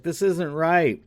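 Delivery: troubled protest, lightly acted; mock concern. Retelling how she feels bad for the troll, mock concern. Film heroine feeling bad, voiced.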